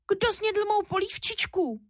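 high, unhappy little cub's squeak; tiny squeak. A narrator's reading. Little bear cub wailing about his empty bowl, high squeak. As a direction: squeak it out like a sad baby bear. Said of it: "Vypískl nešťastně tenkým hláskem".

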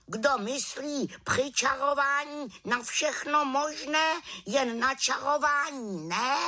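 high schoolmasterly raven voice; lecturing raven. A narrator's reading. Raven lecturing the distracted witch, high voice. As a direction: lecture her like a wise old bird.

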